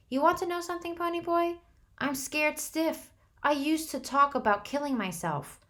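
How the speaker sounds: high, trembling fear; scared stiff. A narrator's reading. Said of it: "He drew a quivering breath".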